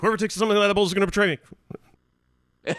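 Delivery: rushed, high-pitched, blurted out at top speed. Speaker acting out a quote from a story, said really fast. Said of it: "he said it really fast".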